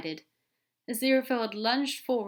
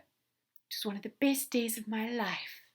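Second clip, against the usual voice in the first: earnest; 4 semitones higher than usual. Acted. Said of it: "Aziraphale answered earnestly".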